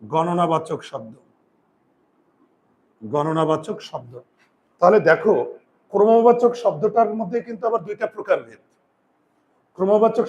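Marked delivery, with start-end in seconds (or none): 0.0-4.1 slow, term repeated for writing; teacher dictating a new term; slow dictation. Shown as a demonstration. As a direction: spell it out slowly twice. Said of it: "আমরা বলতে পারি".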